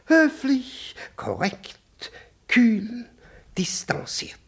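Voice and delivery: whispered, cool and pointed; hushed. Acted. Superior lecturing Nowikow on conduct, whispering. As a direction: drop to a whisper on each word. Lists proper conduct, drops voice.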